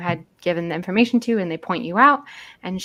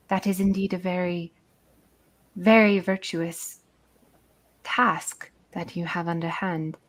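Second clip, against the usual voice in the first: put-on light British accent for the guide; lightly British-accented jungle guide. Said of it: "I don't know why I made her British".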